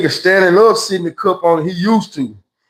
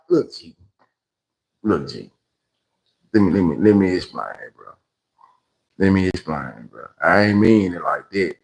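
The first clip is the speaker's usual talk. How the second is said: mock nervous pleading; 10 semitones lower, 6 dB quieter than usual. Backing down before cellmate.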